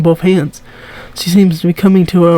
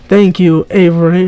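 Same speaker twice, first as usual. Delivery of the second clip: put-on tentative southern accent; attempted southern accent. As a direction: read Remy with a hint of the South. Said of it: "I'm doing this southern, I'm trying".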